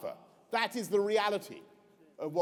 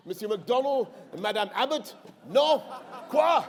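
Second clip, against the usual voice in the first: put-on French accent. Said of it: "Michel Barnier says".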